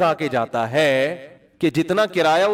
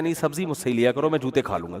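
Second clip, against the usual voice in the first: submissive seller; 4 semitones lower, 4 dB quieter than usual. Retold or imitated. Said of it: "کہتا ہے".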